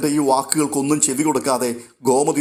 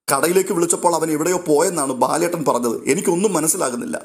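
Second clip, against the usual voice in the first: higher, urgent worried mother; anxious pleading; 5 semitones higher than usual. Acted. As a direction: press him, tense with worry. Worried mother pressing her son. (ആധിയോടെ ചോദിക്കുന്ന അമ്മ)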